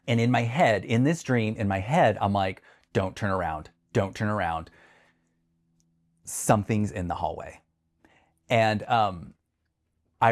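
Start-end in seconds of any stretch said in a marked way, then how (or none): 2.9-7.6 hushed, low retold dread; fearful inner voice. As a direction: warn yourself under your breath, as if recalling terror. Terrified inner voice in dream.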